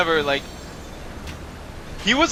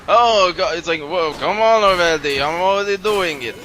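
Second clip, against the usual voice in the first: louder Yiddish accent impression; 4 dB louder than usual. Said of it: "stereotypical Yiddish Jewish accent".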